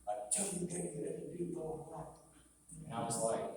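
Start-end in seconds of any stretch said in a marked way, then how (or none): 0.3-2.1 retold rant, pitched up; mock yell. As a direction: mimic the director yelling, without the volume. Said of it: "he was yelling in my face".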